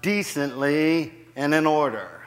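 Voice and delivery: deliberate emphasis on "decently and in order"; stress on decently. Shown as a demonstration. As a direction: lean on "decently", then settle on "in order". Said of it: "Too many of us put the emphasis on".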